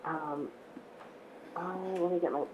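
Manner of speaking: hoarse, croaky voice; speaking through a frog in the throat. Real, not acted. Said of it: "I apologize for my odd voice".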